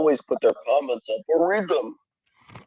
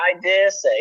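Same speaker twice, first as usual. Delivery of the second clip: higher-pitched British catchphrase; mock British accent; 3 semitones higher than usual. Mimicking Sir Dare say's repetitive catchphrase, mock British accent. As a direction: say it like a mock Brit. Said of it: "I speak in a British accent".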